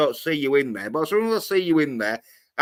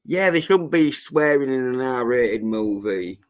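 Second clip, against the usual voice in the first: mocking imitation. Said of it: "she's saying it like it's fucking gospel".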